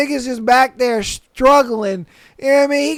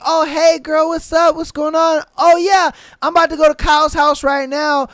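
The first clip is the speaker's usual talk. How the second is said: lightly voiced, higher-pitched woman on phone; a hint of girly phone chat, pitched up; mock chatty girlfriend; 3 semitones higher than usual. Passenger calls her friend, imitated chatty greeting.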